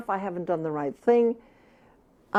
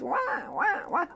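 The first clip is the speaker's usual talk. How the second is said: high, soft mock baby crying wah; a hint of a crying infant; imitated baby wail; 9 semitones higher, 7 dB quieter than usual. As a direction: mimic a newborn's wail lightly. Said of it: "When the baby goes".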